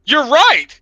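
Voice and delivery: high, loud hammed-up battle cry; mock fired-up yell. Tripping narrator agreeing to fight the tree, hammed-up yell. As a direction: pump yourself up to fight a tree.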